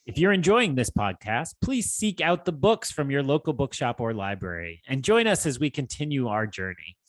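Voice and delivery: steady podcast sign-off; outro read. Acted. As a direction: read the closing like an announcer.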